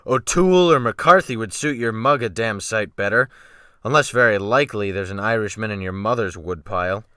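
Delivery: a hint of a gruff, mocking captain; lightly voiced captain sneering at the boy; hard sea captain. Captain insulting the new cabin boy, a light sneer.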